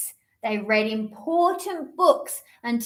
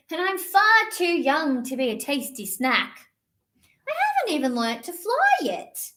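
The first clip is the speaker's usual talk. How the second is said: little bird; 4 semitones higher than usual. Acted.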